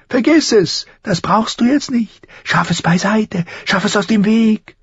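urgent, very high screech; crow screeching. A narrator's reading. Crow orders boy to push memory away, screeching. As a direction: drive each order home in a shrieking bird voice. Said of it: "kreischte sie ihn an".

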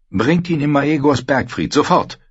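high, urgent royal order; commanding queen. A narrator's reading. Queen orders her son brought to safety, commanding. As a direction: demand instant obedience as the queen.

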